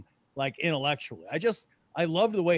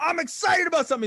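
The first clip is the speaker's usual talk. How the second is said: high, fast, louder eager gush; mock excitement; 12 semitones higher, 4 dB louder, faster than usual. Telling Jacob about a new idea, hammed-up eager gush. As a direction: gush like an overexcited kid. Mocking own eager younger self.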